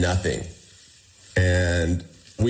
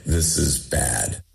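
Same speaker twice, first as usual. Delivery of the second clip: despairing; 5 semitones lower, slower than usual. Retold or imitated. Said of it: "the despair was thick".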